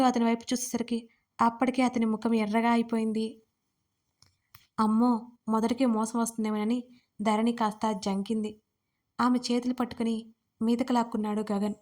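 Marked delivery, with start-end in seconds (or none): none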